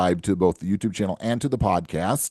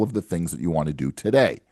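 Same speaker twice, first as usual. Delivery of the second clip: today leaned on at the end of the line; stress on today; 3 semitones lower than usual. Shown as a demonstration. Advisor urging clients to wait, today gently stressed. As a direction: give the word today a little extra weight. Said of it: "I emphasize the word today".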